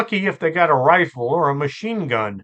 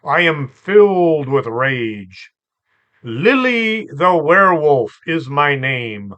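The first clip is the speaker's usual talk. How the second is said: dramatic werewolf broadcaster. Retold or imitated. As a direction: read it like a mock-savage wartime broadcast, drawn out. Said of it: "She said".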